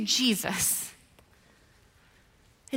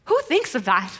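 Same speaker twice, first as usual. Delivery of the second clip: incredulous aside, close to usual pitch; 4 dB louder than usual. Real, not acted. Preacher reacting to Peter's idea, incredulous. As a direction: ask it in mild disbelief.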